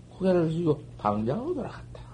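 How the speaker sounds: 속삭이듯 빠르게; hushed whisper. A narrator's reading. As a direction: breathe the line out like a secret. Hushed narration of the master leaving.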